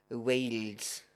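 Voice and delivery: Wales said as "weels" with a Welsh lilt; Welsh-accented Wales, vowel like "wheels". Pretend. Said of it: "That's my attempt at a Welsh accent".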